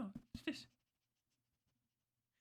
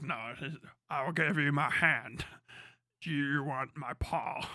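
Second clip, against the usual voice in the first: voicing the dog; 4 semitones lower, slower than usual. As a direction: speak for the dog, slow and hushed. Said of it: "he's like".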